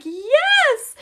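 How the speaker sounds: high, loud cry of delight; a mom's thrilled yes; excited yes. Retold or imitated. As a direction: shout it out with glee. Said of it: "I was like".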